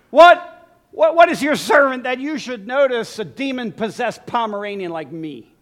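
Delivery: loud yelped what, then a comic rant; mock outburst. Preacher parodying Mephibosheth, loud mock self-pity. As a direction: blurt it out, hammed up.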